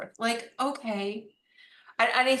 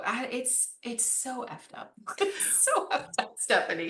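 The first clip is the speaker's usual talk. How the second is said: laughing; 4 semitones higher than usual. Real, not acted. Laughing disbelief at running judgment.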